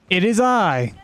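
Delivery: slow, grand villain proclamation; lightly voiced menacing overlord; dark lord. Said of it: "calling myself Atom Smasher".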